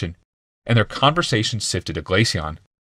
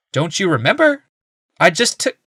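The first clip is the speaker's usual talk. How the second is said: healer; 10 semitones higher, 4 dB louder than usual. A narrator's reading. Voices the healer.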